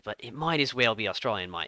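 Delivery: lightly put-on Australian accent. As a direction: joke in a broad-vowelled Australian accent. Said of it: "I'll do my Australian accent".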